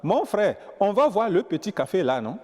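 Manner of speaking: put-on lively Togolese French accent; accent togolais. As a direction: imitate a Togolese inviting a friend. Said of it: "Le Togolais". (imitation de l'accent togolais)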